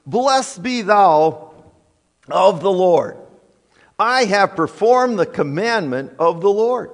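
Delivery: loud, high, pompous piety; sanctimonious. Acted. Saul greeting Samuel after disobeying, sanctimonious and hypocritical. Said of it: "get very sanctimonious and very hypocritical".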